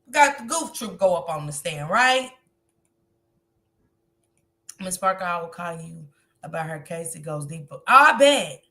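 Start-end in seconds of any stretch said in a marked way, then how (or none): 4.8-7.8 lower, softer mock official voice; a light put-on deep voice; lightly voiced investigator promising a call back; deep-voiced cop imitation. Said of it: "from his deep thing".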